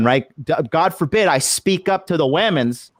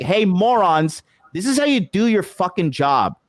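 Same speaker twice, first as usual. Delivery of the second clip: retold angry scolding; 6 semitones higher than usual. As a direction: call them out with mocking exasperation. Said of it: "I'm so angry".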